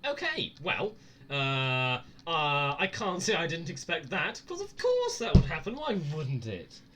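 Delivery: high, loud startled rant; jolted and rattled. Real, not acted. Startled by jump scare.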